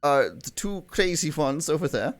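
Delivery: hesitant excuse in a put-on accent; theatrical koala character. GM continues as koala N.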